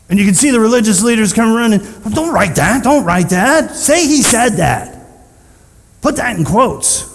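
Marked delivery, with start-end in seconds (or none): 2.1-7.0 high-pitched, agitated objection; urgent protest. Acted. Religious leaders running up to Pilate, protesting urgently. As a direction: rush in to stop him writing.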